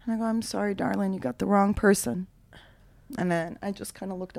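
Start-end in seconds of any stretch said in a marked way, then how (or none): 0.2-2.3 softer put-on southern accent; polite Southern brush-off; lightly played Georgia southerner, apologetic. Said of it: "I said it in a southern accent".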